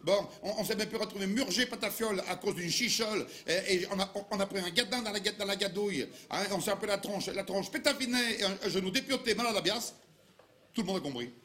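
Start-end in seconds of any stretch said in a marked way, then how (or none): 0.0-10.0 thick Dauphinois patois, higher pitched; Dauphinois dialect. Shown as a demonstration. Comic proving Dauphinois is understandable to anyone, Dauphinois accent. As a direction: reel off a local sample phrase in Dauphinois. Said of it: "n'importe quelle phrase en dauphinois".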